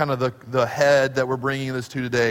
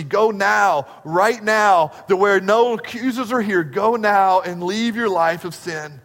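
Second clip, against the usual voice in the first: urgent push; 3 semitones higher, 3 dB louder than usual. Acted. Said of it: "There's a sense of urgency".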